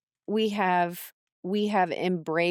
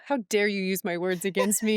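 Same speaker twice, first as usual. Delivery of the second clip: laughing. Retold or imitated. Laughing retelling daughter's scolding.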